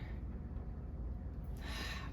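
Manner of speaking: long soft breathy sigh. Acted. Luis remembering the cold house, sighing softly. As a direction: let out a quiet, drawn breath. Sigh while recalling hardship.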